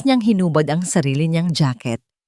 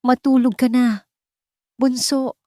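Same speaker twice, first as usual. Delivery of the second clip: lullaby hush; 7 semitones higher than usual. A narrator's reading. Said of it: "isang pabulong na oyayi".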